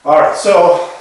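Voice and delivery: winded mid-exercise; out of breath. Real, not acted. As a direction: talk while short of breath. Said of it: "that sounds like I'm out of breath".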